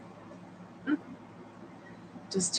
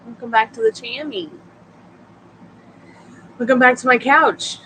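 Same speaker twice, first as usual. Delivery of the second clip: excited welcome; 6 semitones higher, 7 dB louder than usual. Real, not acted. Loud cheerful welcome to viewer.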